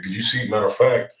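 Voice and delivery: ordinary talk, nothing marked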